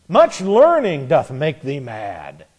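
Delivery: Paul shouted out high and loud, then slowing. Acted. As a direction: bellow it like an outraged governor. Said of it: "Festus said with a loud voice".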